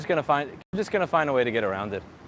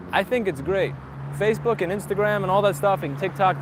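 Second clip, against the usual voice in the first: sarcastic; 3 semitones higher than usual. Acted. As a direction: gush with fake approval. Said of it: "if you couldn't tell by my sarcasm".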